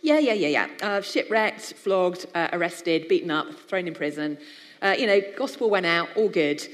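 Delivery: Paul the resilient, brushing off his sufferings breezily; breezy Paul. Pretend. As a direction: rattle off disasters like they're nothing. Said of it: "glorious sentences like".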